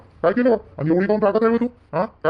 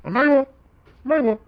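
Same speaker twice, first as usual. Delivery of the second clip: sudden high, loud denial; loud protest; 8 semitones higher, 4 dB louder than usual. Acted. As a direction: cry out no in protest. Husband protests wife's accusation. (ठामपणे मोठ्याने नकार)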